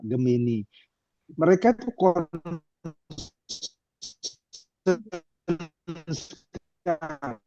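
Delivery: bad connection, voice cutting out; choppy call audio; voice breaking up. Real, not acted. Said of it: "Suaranya putus-putus".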